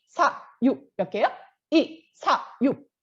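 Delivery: 이, 사, 육 said as separate clipped beats; staccato. Shown as a demonstration. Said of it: "스타카토로 찍어서 한번 읽어보는 거예요". (스타카토로 끊어 읽는 이, 사, 육)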